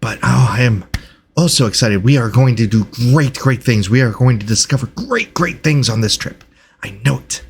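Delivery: eager scholar leaning on repeated words; excited researcher. Acted. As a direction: play a mildly gushing, earnest enthusiast. Game master voices Reginald.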